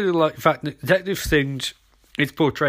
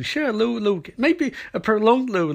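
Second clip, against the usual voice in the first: mock cutesy; 5 semitones higher than usual. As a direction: tease the little kiss sweetly. Mocking TV romance cliché again.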